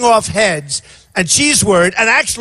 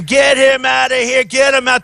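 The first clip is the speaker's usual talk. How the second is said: raised, higher mock yell to security; calling out to remove him; replaying a rally yell; retold screaming; 4 semitones higher than usual. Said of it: "and I'm screaming".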